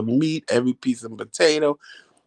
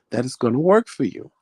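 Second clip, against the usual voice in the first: whisper. Retold or imitated. Mother's spiritual hint.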